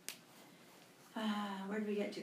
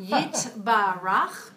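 slow model reading, each syllable stretched; slow, drawn out; 7 dB louder, slower than usual. Shown as a demonstration. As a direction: stretch every syllable slowly. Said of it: "Do another one".

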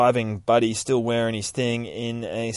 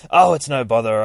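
lightly voiced church lady, pitched up; a hint of the busy church lady proud of her casseroles; eager housekeeper; 8 dB louder than usual. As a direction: fuss over the new priest a little. Housekeeper brushing off thanks.

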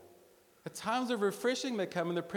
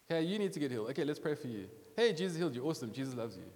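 breezy street prayer; 3 semitones lower, much faster than usual. Retold or imitated. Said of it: "and that was it".

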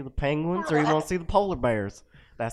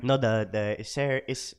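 put-on Filipino accent; 4 semitones lower than usual. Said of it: "Filipino accent".

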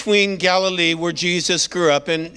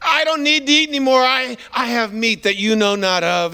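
happy Jesus; 3 semitones higher than usual. Retold or imitated. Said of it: "Jesus is just happy saying".

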